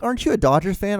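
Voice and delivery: lampoon the ex cooing about her team winning; mocking ex-girlfriend voice. Ex-girlfriend voiced in breakup story.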